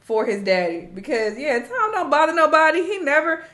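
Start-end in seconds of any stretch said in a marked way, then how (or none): 1.4-3.5 laughing rant. Real, not acted. Laughing while ranting.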